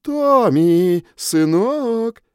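loud, high call across a hall; woman calling. A narrator's reading. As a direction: call your son from far off. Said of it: "позвали из зала женским голосом".

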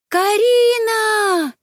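long, high ringing call across the beach; a cousin's joyful long shout; shouted name. Acted. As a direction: call her name from far off, drawn out and loud. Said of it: "закричал знакомый женский голос".

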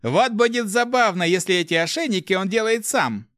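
high, lively grin in the voice; amused, smiling. A narrator's reading. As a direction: tease with open amusement. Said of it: "улыбнулся воришка". (весело, с улыбкой)

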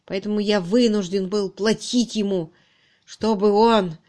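halting, aggrieved confession; mildly agitated, guilty man; distraught confessing subordinate. Acted. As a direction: explain your downfall wretchedly. Narrator acts suspect's confession.

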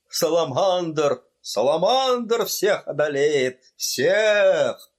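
madman's hammed-up bellow; mock roar. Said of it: "вдруг взревел конректор Паульман в величайшем бешенстве".

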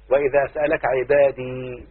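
slow, measured Quran quote; slow recitation. Shown as a demonstration. Teacher quoting a verse as an example, slow recitation. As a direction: recite it slowly to show the reading. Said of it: "وابقاء الكسره".

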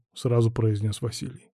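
ordinary delivery

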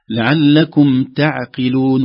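slow, light ع and ت in تعقلون; slow recitation. Shown as a demonstration. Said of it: "ترقيق العين، ترقيق التاء".

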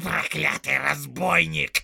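loud, slow cursing cry; angry orc outcry. Acted. Little orc cursing the soldier in fear and rage, loud. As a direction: curse him with fear and rage. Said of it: "вскричал он".

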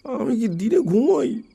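irritated. A narrator's reading. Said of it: "বিরক্ত মুখে বলল".

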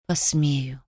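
calm reply. A narrator's reading. Lem answering the bound king, calm and soft. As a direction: say it softly, as if it costs nothing. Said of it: "спокойно ответил Лем".

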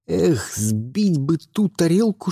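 ordinary delivery, nothing marked

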